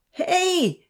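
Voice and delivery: high, loud yell; young men yelling while slipping in mud; calling out. A narrator's reading. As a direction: shout for help sliding down. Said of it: "they called out".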